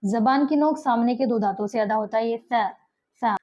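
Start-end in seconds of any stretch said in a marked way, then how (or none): 2.3-3.3 سا said as th, tongue tip on front teeth; tongue between teeth. Shown as a demonstration. Teacher demonstrates سا for students with tongue on teeth. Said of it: "زبان دانتوں سے لگتی ہے تھن".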